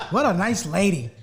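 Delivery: sarcastic "what a nice lady"; mock admiration, said at normal pace; sarcastic praise. Real, not acted. Co-host mocking the friend's woman, sarcastic.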